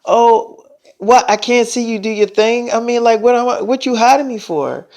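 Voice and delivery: a hint of a miffed girl; Madison, offended. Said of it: "She's like".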